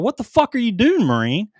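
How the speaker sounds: high-pitched yelled question, retold; imitated yell, starting high and dropping. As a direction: call out in disbelief, acting out the moment. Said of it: "I yelled at him".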